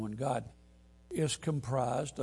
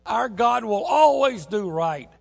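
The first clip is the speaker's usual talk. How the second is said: loud, high, slowed proclaiming; loud, ringing pulpit voice; full-force preaching; 5 semitones higher, 7 dB louder than usual. Acted. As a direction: preach it to the rafters.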